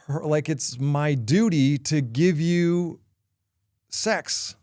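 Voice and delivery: mildly acted angry telling-off; a touch of exasperation, building slightly; retold scolding. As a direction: imitate a fed-up wife laying into him. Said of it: "she let me have it".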